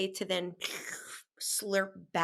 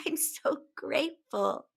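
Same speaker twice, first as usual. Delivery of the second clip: tearful; 5 semitones higher than usual. Retold or imitated. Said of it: "here I am wiping tears being like".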